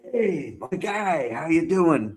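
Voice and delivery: a light, laughing Irish lilt, slowed way down; greeting an old crewmate with a bit of Irish; Irish accent. Retold or imitated. Maxwell greeting O'Brien in a playful Irish accent. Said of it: "a little Irish accent there".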